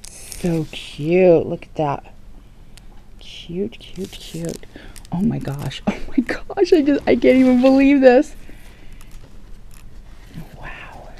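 soft breathy whisper of delight; awed whisper. Real, not acted. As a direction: whisper it as if afraid to break the spell. Whispering in awe over crafts.

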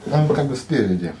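speaking between bites; talking while chewing. Real, not acted. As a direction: mouth partly full of food. Seen 0: Bites sandwich at -4 to -2, then talks while chewing.

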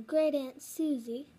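lightly imitated teacher; Missus Lindy. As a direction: finish the teacher's line in a light impression. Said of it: "She's like".

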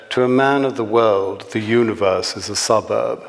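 measured comic novel reading with lightly voiced dialogue; story narration. A narrator's reading. Author reading a satirical dinner scene to an audience, measured storytelling. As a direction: read the satire aloud with dry, deliberate timing.

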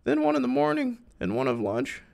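very high put-on falsetto voice; high-pitched character. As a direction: read it way up in a squeaky-high character voice. Reads a character's lines in falsetto.

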